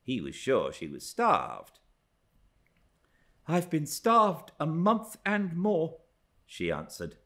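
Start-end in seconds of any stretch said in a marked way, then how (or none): 3.5-6.0 high, scornful retort; higher-pitched, scornful complaint. A narrator's reading. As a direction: lean on starved with disdain. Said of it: "resting on the word as scornful as she could".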